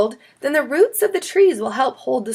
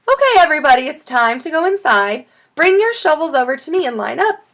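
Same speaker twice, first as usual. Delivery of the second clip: calling out; 6 semitones higher, 4 dB louder than usual. A narrator's reading. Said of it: "called Missus Wushy".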